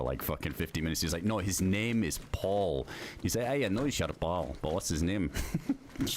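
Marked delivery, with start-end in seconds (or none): 1.2-2.9 slow, insistent mock Scottish; imitated Scottish correction, drawn out; Scottish accent. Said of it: "exactly the fucking same in a Scottish accent". 3.5-5.3 imitating a really Scottish dude; mock Scottish puzzled question; lightly put-on Scottish asking; Scottish accent. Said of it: "this really Scottish dude".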